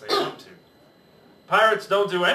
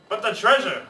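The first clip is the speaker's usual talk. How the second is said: hollered protest; 5 semitones higher, 4 dB louder than usual. Acted. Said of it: "hollered Beard Braid".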